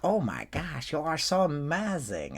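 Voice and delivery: put-on high, swooping German-accented gush; gushing fans, German accent. Admiring learners to the performer, gushing German accent. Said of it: "They're like".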